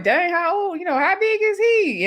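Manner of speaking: high-pitched retold astonishment; mock amazement. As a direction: ask it high, imitating someone amazed. Retold amazed question about the pet.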